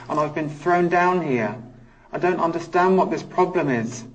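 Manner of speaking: frustrated, pleading outburst voicing a wronged spirit; channelled anger. Medium voicing a prisoner thrown down here, frustrated and indignant. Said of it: "that frustration in my voice".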